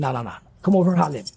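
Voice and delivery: big dude's voice. Retold or imitated. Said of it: "He said".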